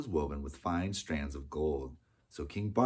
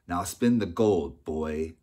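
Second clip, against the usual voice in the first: commanding; 7 dB louder, much slower than usual. Acted. Miller orders the boy.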